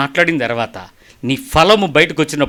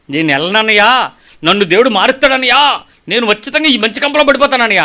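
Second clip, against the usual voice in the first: mock pleading young man; 6 semitones higher, 4 dB louder than usual.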